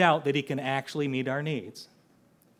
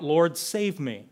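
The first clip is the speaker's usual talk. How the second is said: mild cry for help; slower than usual. Acted. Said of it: "he cried out".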